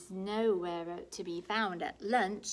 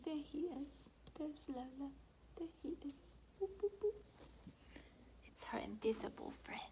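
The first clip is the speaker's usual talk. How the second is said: soft, higher hushed voice; hushed pointing out; 7 semitones higher, 7 dB quieter than usual. A narrator's reading. Reader showing picture to children, hushed whisper. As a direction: point them out softly.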